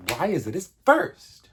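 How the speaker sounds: puzzled at the movie; incredulous. Retold or imitated. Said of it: "which I'm like".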